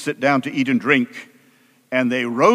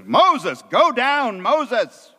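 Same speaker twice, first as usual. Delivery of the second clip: mildly raised, emphatic divine scolding; understated anger, pitch lifted at the start; angry God; 3 semitones higher than usual. Acted. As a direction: act out God fed up with the people. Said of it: "in a very angry voice".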